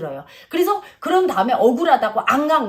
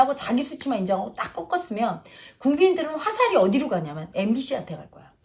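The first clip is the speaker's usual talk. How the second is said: ordinary talk, nothing marked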